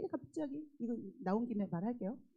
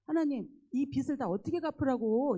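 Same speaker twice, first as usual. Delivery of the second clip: raised, complaining mock protest; mild retold anger; 4 semitones higher, 5 dB louder than usual. Complaining to God about the debt, mildly angry. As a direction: protest to God with some heat. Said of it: "하나님 앞에 화가 나가지고".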